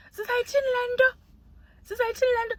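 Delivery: high, laughing despair; laugh, then ask what we can even do; exasperated laugh. Real, not acted.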